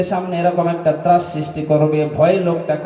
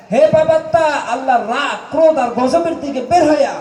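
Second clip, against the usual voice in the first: threatening rebuke; 7 semitones higher than usual. Acted. Angel of death ordering the sinful soul out, threatening rebuke. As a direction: thunder it out as a scolding death angel. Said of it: "ধমক দিয়ে বলে".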